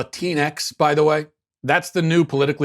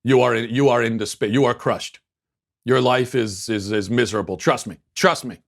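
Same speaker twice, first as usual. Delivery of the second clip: mock candidate; 2 semitones lower than usual. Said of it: "one of these candidates goes up to".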